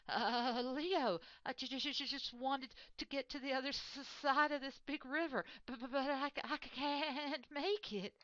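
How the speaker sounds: high, trembling, stammering squeak; stuttering scared mouse. Acted. The frightened mouse stammers to the huge lion, high and shaky. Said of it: "began to shake and stutter".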